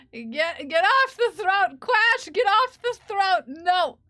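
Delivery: loud, high shooing; mock scolding. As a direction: yell at them playfully to clear off. Shooing viewers off the throne.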